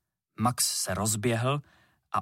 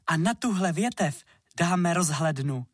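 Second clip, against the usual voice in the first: eager proposal; 6 semitones higher than usual. A narrator's reading. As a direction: pitch the idea excitedly.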